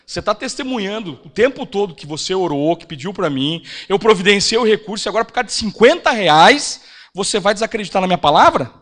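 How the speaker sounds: mild rebuke building to a loud challenge; acted divine reproach, building; lightly voiced Holy Spirit. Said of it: "o Espírito Santo falou".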